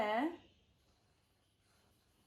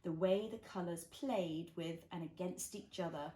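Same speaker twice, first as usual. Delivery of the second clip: put-on reading to a toddler. A narrator's reading. Reads picture book to child.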